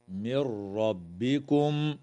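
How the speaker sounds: من ربكم chanted with a full stop on ربكم; recited stop. Shown as a demonstration. Teacher showing the stop to students, slow chant. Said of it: "ويجوز الوقف على".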